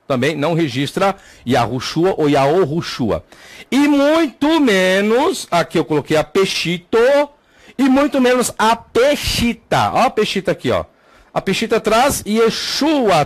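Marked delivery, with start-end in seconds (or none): 3.7-5.5 "E muito menos" slow and high-pitched; emphatic stress. Real, not acted. Teacher ruling out another source, "E muito menos" high and drawn out. 7.8-9.9 "e muito menos a Peshita" high and slow; emphatic stress. Real, not acted. Teacher dismissing the Peshita claim, "e muito menos a Peshita" high and slow.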